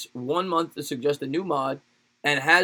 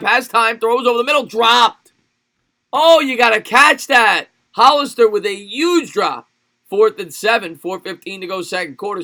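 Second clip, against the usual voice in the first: rising, louder sportscaster call that peaks at the spin; live play-by-play; 5 semitones higher, 7 dB louder than usual. Acted. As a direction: streamer calling his game like a TV broadcaster, excited play-by-play.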